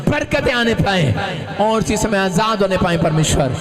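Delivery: fervent preacher praying at full force; forceful public prayer. Real, not acted. Preacher praying for blessing on their homes, fervent prayer. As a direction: declare each blessing over the crowd, swelling on key phrases. Prays over the women for blessing.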